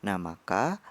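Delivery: ordinary talk, nothing marked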